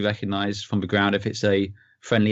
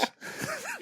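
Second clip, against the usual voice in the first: high squeal laugh; 14 dB quieter than usual. Real, not acted. Reacting to the money bags tease.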